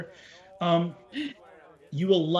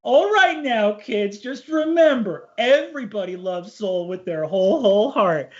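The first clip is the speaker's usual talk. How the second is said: kindly elder; 3 semitones higher than usual. Acted. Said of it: "Roger shakes his head and goes".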